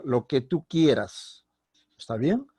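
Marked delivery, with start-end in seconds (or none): 0.0-1.4 slow answer with "que" left unstressed; unemphatic answer. Shown as a demonstration. Teacher demonstrating an answer, unemphatic "que". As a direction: keep "que" level, no questioning lift, and draw it out. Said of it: "cuando hago la respuesta".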